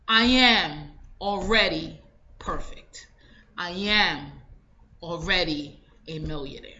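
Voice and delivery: hushed, calm I am already perfect; low, whispered certainty; quiet affirmation. Shown as a demonstration. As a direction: say it softly as settled fact. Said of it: "say it as if you already acquired it".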